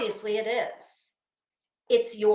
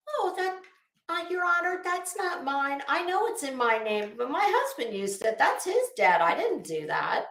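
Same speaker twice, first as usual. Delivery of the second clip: higher, whiny pleading to the judge; mock defendant plea; 6 semitones higher than usual. Mocking Betty pleading in court, whiny and high. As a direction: play the innocent wife blaming her husband. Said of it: "every single person on earth in your shoes would say".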